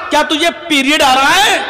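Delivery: high, challenging retold question; acted indignant questioning; exasperated shout. Retold exasperated calling, translated.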